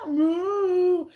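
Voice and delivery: high, loud mock meow; cat in heat yowl. Cat in heat yowling, high and loud. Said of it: "they're like".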